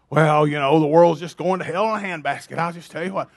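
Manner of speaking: lightly voiced low complainer; mock grumbler. Preacher mimicking a doom-sayer for his congregation, mock grumbling. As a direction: grumble it low, as a put-on naysayer.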